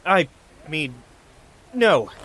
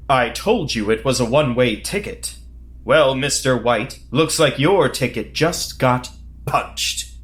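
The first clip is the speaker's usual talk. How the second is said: cool one-liner. Acted. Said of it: "what about".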